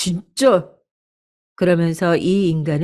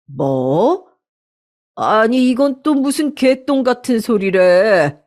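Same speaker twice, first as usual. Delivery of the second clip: shocked furious father; 3 semitones higher, slower than usual. Acted. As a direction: explode at news of the affair. 바람 소식에 아빠 격분. (사위 바람 소식에 충격받아 터뜨리는 아빠의 분노)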